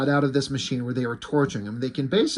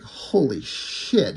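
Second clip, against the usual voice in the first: mock stunned; much slower than usual. Retelling team's shock at explosion.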